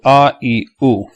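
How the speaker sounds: A, E, U as "ah, ee, oo"; read without spelling. Shown as a demonstration. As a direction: recite A, E, U as three pure vowels. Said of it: "how you say without spelling".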